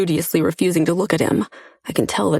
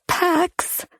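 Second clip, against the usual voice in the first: cry out; 12 semitones higher than usual. A narrator's reading. Chase crying out his name.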